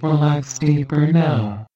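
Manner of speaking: steady, measured hypnotist cadence with long pauses; calm hypnosis script. Acted. Hypnotist giving trance triggers to the listener, measured hypnotic voice. Gives post-trance instructions.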